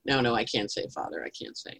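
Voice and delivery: whispered shy confession; boy whispering. Acted. Altar boy whispering to the priest in confession. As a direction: hush it like a secret. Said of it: "He goes".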